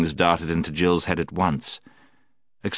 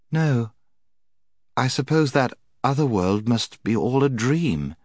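Jill; 6 semitones higher than usual. A narrator's reading. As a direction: give in as if enchanted. Jill yielding to the enchantment.

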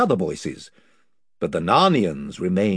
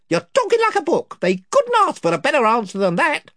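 higher eager followers; chorus of voices; 5 dB louder than usual. Acted. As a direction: cheer on your chief.

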